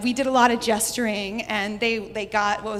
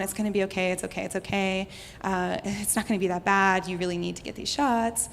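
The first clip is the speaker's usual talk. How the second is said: soothing nurses; 2 semitones lower, 5 dB quieter than usual. Retold or imitated. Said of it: "calming me down".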